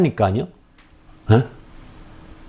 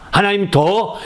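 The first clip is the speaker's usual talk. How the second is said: ordinary talk, nothing marked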